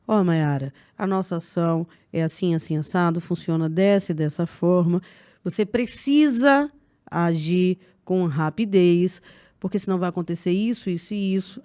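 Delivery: paused, steady and firm; breathe, then speak with firm assurance; calm and confident. Retold or imitated. Boss showing her staff how to pitch calmly, confident. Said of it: "Pausa, respira".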